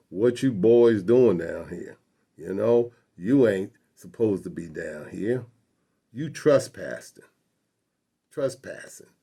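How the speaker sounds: lightly voiced menacing Southern cop; threatening policeman. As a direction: lean on them with a measured, mild threat. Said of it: "with a threat in his voice".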